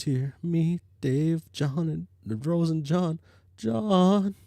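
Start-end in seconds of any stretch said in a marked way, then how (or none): 3.6-4.3 shocked cry. Acted.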